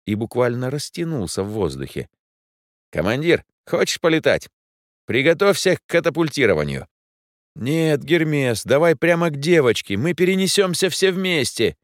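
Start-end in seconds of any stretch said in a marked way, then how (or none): 2.9-6.9 higher, bouncy robot sidekick; robot Hermes voice. Acted. Робот Гермес говорит с Дэном. 7.5-11.8 put-on higher, urgent young hero; boy hero voice. Дэн отвечает Гермесу.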